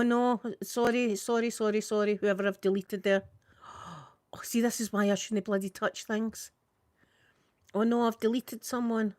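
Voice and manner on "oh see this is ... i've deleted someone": hushed flustered whisper. Real, not acted. To herself after deleting a comment, hushed whisper. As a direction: mutters under her breath.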